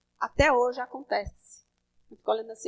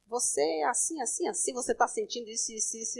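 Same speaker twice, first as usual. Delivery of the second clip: imitating a prophet; 3 semitones lower, 10 dB quieter than usual. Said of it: "já chegaram pra mim dizendo".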